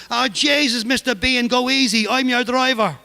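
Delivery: frightened plea. Retold or imitated. Terrified driver pleading with Behan, high frightened voice. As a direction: beg him to go easy, panicked.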